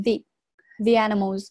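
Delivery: the said as "thee" before animals; long E in THE. Shown as a demonstration. Teacher demonstrates vowel change, the animals said "thee animals". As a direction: link thee smoothly into animals. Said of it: "这个E呢要发生变音".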